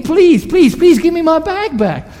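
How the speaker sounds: high, loud pleading please; a mock-desperate Roman soldier begging. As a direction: plead desperately for the bag back. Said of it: "the Roman soldier will start begging".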